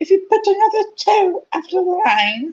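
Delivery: very high, shrill, piercing put-on voice. Taunting another student at school, he puts on a shrill, piercing voice. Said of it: "He put on a shrill, piercing voice".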